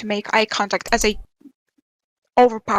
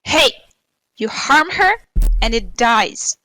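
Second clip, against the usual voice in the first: raised voice, calling out a warning; shouted threat; 5 dB louder than usual. Acted. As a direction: shout a threat across to an enemy. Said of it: "I'll shout to Sue".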